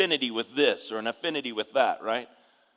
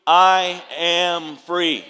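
leading the congregation; 3 semitones higher, 8 dB louder, much slower than usual. Shown as a demonstration. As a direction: draw out each word for the crowd to shout. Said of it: "Let me give you a count of three".

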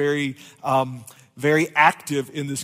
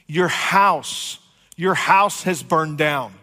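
breathless urgent plea; hurried, winded warning; out of breath. Retold or imitated. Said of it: "out of breath".

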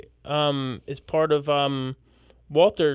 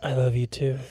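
mock crying; 3 semitones lower, 4 dB quieter than usual. Mock emotional trailer scene.

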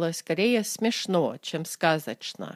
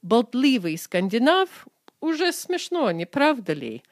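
wry mock amusement; 5 semitones higher, 4 dB louder than usual. Shown as a demonstration. Russian example of dry mockery.

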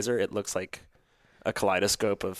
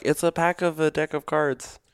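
mocking tone; 8 semitones higher, 5 dB louder than usual. Mocking claim others made.

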